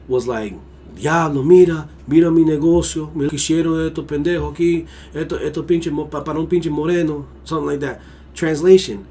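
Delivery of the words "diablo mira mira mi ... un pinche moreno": pained shopkeeper. Retold or imitated. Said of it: "replicate it... the pain behind his voice".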